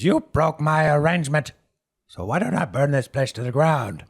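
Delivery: high, loud outburst; irate Herb, accusing. Acted. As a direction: shout the accusation at a rival. Herb threatens the boss.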